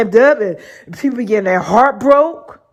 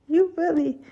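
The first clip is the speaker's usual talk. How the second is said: disbelief; 7 semitones higher than usual. Retold or imitated. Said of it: "that's what I said".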